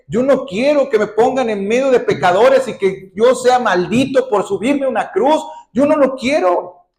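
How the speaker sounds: builds from calm to a high, loud, desperate plea; a pleading prayer that swells into a high, loud outcry; anguished pleading. Acted. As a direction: beg God, rising to a cry of refusal. Jesus' anguished prayer voiced.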